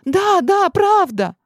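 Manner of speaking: high, loud yes; eager insistence. A narrator's reading. Girl insisting to the shadows, high eager. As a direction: grab at the chance.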